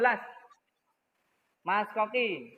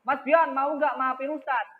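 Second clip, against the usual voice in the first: a hint of a harsh apology; mild mock snapping; 4 semitones higher, 4 dB louder than usual. Shown as a demonstration. Teacher pretends to snap an apology at Mas Bian, mildly. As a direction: bark the request lightly. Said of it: "sambil bentak-bentak".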